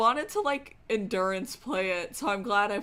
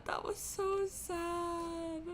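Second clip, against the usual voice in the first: slow, higher, softer through tears; quiet crying; 9 semitones higher, 6 dB quieter, much slower than usual. Real, not acted. Streamer repeats it to chat, softer and tearful. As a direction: let it fade into a sob. Crying reaction after the scene.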